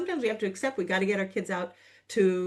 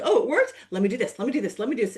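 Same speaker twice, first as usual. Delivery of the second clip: mock greedy excitement; 4 dB louder, much faster than usual. Greedy person voiced.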